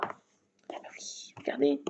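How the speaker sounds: slow breathy whisper into a soft aside. Real, not acted. To viewers at night, whispering her new plan. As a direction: let the discovery come out hushed.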